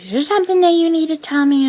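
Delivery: high, quick accusing mother; mom's accusation. Retold or imitated. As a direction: imitate mom demanding answers. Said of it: "I was like".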